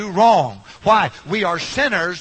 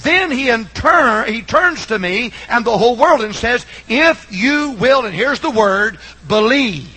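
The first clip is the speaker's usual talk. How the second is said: higher, deliberate gospel preaching; earnest preaching; 5 semitones higher than usual. Real, not acted. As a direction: preach it with measured emphasis, pitch lifted.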